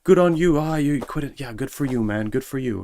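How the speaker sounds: high, loud mock praise; cheering coworkers. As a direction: ham up the cheering. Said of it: "They were like".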